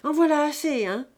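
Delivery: stern shout. A narrator's reading. Old Fouan silences the quarrel, stern loud rebuke. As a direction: shut the squabble down hard. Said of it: "finit par dire Foy".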